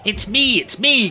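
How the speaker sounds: high, giggly eager voice; giggling. A narrator's reading. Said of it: "giggled Rishi Scrooge".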